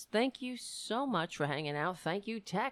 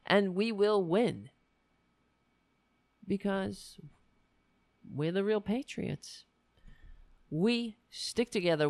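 rally speech. Real, not acted. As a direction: build it like a campaign speech. Closing rousing speech to viewers.

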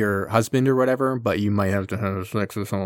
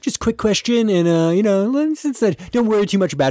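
high, careful mock politeness; tentative question; 10 semitones higher than usual. Council gingerly screens a submarine captain, high and tentative. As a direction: ask gingerly in a raised voice. Nervously asking about the virus.

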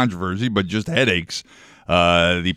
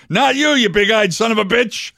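higher, shouted parrot punchline; angry parrot; 10 semitones higher than usual. Retold or imitated. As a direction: snap it at the owl like a furious parrot. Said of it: "And the parrot goes".

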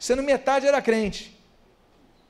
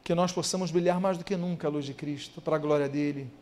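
soft, low prayer voice, unhurried; closing prayer; 6 semitones lower, 6 dB quieter than usual. Acted. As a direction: lead the church gently into prayer. (voz baixa e suave de oração)

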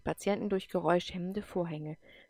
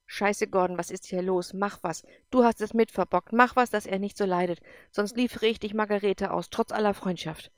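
angry; 3 dB louder than usual. Acted. Furious reproach in a crisis.

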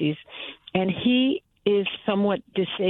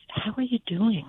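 caring question; 2 semitones higher than usual. Shown as a demonstration.

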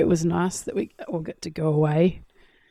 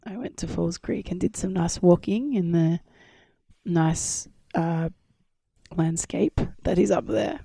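croaky voice just back after illness; hoarse, croaky voice recovering from a bug. Real, not acted. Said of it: "a little bit croaky tonight".

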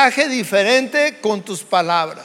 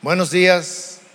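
lower, clipped Buenos días falling flat; grudging good morning; 4 semitones lower than usual. Shown as a demonstration. Pastor showing a cold greeting, lower and curt. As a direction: greet as if annoyed. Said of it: "el tono de voz nos dice mucho".

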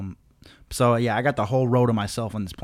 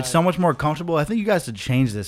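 higher and louder, goofing around; playful teasing; 4 semitones higher, 5 dB louder than usual. Retold or imitated. Man teasing the flight attendant about his seatbelt, playful and higher. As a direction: needle the attendant like a grinning kid.

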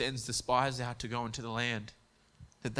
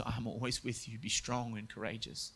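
hushed, gently softer; soft voice of God; 3 semitones lower, 7 dB quieter than usual. Acted. God leaning down to the troubled man, hushed and gentle. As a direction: lean in and speak it softly, a mild stage whisper. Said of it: "he whispers and he says".

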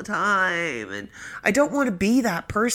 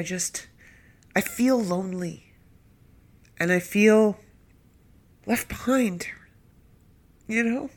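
blubbering; 5 semitones higher than usual. Real, not acted. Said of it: "just me sniveling and blubbering".

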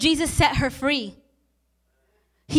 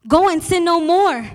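proclaimed; 3 semitones higher, 5 dB louder than usual. Acted. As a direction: Go and sin no more proclaimed louder, Go punched. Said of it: "That's a choice".

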